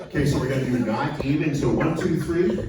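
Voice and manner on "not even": lightly put-on, drawn-out Indigenous accent; slow Indigenous accent. Shown as a demonstration. Comic cueing the crowd to repeat, slow Indigenous accent. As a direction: model the Indigenous accent slowly. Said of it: "you have to say it slow".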